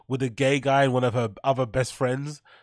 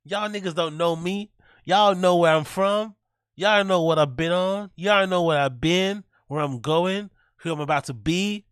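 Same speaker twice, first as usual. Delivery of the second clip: higher-pitched mock American rapper; hammed-up American tough talk; American accent; 5 semitones higher than usual. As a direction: put on your best American accent. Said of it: "do my best American accent".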